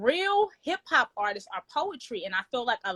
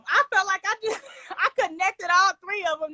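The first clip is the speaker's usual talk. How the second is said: breathless after performing; out of breath; 9 semitones higher, 5 dB louder than usual. Real, not acted. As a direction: talk while catching breath. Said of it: "That's why I'm out of breath".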